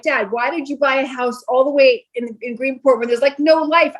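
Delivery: put-on young adult whining at her father about Greenport; whiny to dad. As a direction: protest to Dad like a bored kid stuck out east. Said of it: "And so I was like".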